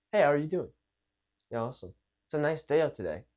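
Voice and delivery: easy, unhurried small talk; calm, relaxed. Shown as a demonstration. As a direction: greet casually with the tune falling. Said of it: "calming it down".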